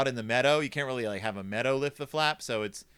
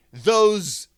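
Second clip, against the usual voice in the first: slow, loud-starting fume, word by word; exasperated Missus Ben; 6 dB louder, much slower than usual. Acted. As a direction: fume like a farmer's wife holding back a swear. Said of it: "Missus Ben wants to say".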